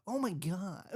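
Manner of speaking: lightly imitated American kid; American accent. Co-host imitating friend's son switching accents, lightly American. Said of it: "Your son has got the double".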